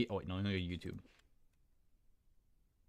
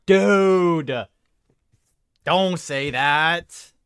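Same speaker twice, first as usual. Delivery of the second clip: louder "Dude!", then slow playful protest; mock outrage; 2 semitones higher, 5 dB louder, much slower than usual. Streamer protesting a viewer who never watched Hermitcraft, mock-outraged. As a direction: scold them in jest, drawing it out.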